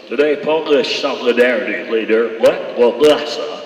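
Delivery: loud newsreader tripping over L words; hammed-up anchor choking on a word; newsman stumbling on L words. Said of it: "He goes".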